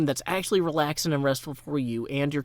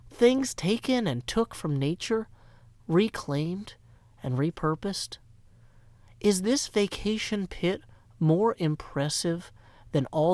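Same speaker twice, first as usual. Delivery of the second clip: poetry reading. Acted. Reads his own poem.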